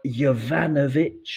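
Jovanovic drawn out slowly, opening with a Y sound. Shown as a demonstration. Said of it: "every time you have a J".

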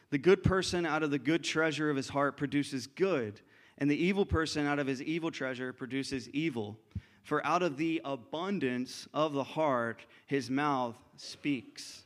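reads Jesus' words, slowing at the end; scripture quote, slowing. Acted. Preacher reading Jesus' words to the congregation, slowing.

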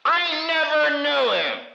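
high, fast frantic denial; a scared disciple denies his master, high and quick; Peter denying. Retold or imitated. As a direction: panicky Peter brushing it off. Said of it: "Who said that?".

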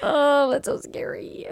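high, slow frightened sigh; scared. Real, not acted. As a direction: shudder at it, drawn out. Scared reaction.

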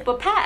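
'bapack' as buh-PACK; weak first syllable, stress on PACK in 'bapack'; dropped k. Shown as a demonstration. Arguing the logic with friend, 'bapack' as buh-PACK. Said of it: "If there's no G? Or a C K?".

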